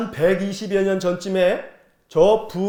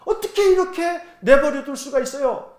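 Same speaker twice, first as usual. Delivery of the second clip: higher, pressing challenge in the prophet's voice; protesting to God; 7 semitones higher than usual. Retold or imitated. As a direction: demand an answer from God, indignant. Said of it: "하나님께 따지듯이". (하나님께 따지듯이 높은 목소리로 항의하며)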